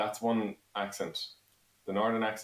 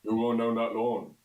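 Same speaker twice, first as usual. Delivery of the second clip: slow, deliberate South Roscommon accent; 2 semitones higher, 3 dB louder than usual. Shown as a demonstration. Dared to do a county, Roscommon accent. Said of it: "do a Roscommon accent".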